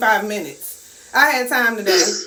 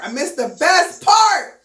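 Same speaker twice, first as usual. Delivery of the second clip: dramatic lament; 5 semitones higher, slower than usual. Real, not acted. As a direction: wail it in mock dismay. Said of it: "Oh, oh, oh".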